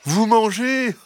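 high, sweet fox voice; incredulous fox. A narrator's reading. Fox answers the hens' accusation, incredulous. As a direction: ask in high-voiced mock disbelief. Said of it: "répondit le renard".

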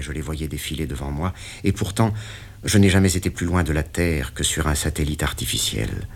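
usual speaking voice

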